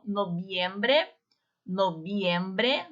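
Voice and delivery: "Noviembre" said nobiembre with a b. Shown as a demonstration. Teacher models v as b for the class. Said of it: "o V tem o som do B".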